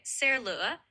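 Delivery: "xe lửa" said in Southern Vietnamese; Southern Vietnamese pronunciation. Shown as a demonstration. Voice tutor shows the word for train, Southern Vietnamese pronunciation. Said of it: "In Southern Vietnamese, you'd say".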